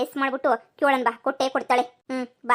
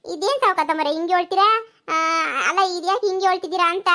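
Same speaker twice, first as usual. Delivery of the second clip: higher, louder welcoming village neighbour; neighbour woman; 4 semitones higher, 4 dB louder than usual. Acted. Paddu welcomes the moneylender's wife and daughter, higher and louder. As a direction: greet the visitors with surprised delight.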